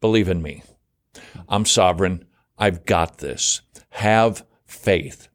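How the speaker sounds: calm, low reassurance; reassuring. Acted. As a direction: settle them down gently. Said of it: "Okay, Jesus says".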